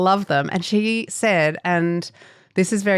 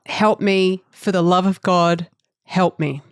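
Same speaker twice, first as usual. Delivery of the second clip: mock desperate plea.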